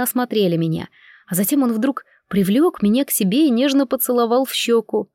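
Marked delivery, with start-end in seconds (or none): none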